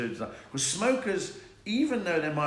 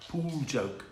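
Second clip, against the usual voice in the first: ordinary talk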